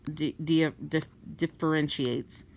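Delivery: tongue tripping over a retainer; stumbling speech around a retainer; wearing a retainer. Real, not acted. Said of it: "I got my retainer in, sorry, got my tongue tied".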